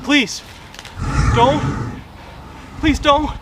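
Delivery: high, frightened pleading; begging. Acted. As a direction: beg for your life. Begging the dinosaur.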